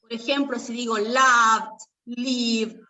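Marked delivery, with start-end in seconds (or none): 1.0-1.8 "loved" drawn out, ending in 'd'; final D sound. Shown as a demonstration. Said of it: "todo el resto va a ser D". 2.0-2.8 "lived" as one syllable ending in 'd'; final D sound. Shown as a demonstration. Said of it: "todo el resto va a ser D".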